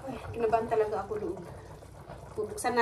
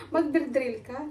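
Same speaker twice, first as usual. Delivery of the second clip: slow and clear; 3 semitones higher, slower than usual. Shown as a demonstration. To the Swedish neighbor who can't follow, slow clear words. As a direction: spell it out slowly for a foreigner. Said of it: "di rin niya ako maintindihan".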